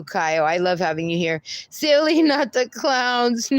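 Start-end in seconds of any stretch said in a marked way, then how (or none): 1.7-3.5 high and laughing through the words; amused high read. Real, not acted. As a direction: giggle it out, squeaky. Reading chat name, laughing.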